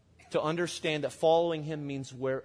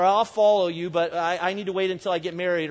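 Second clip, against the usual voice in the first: eager mock promise; 2 semitones higher, 6 dB louder than usual. Mock excuses to Jesus.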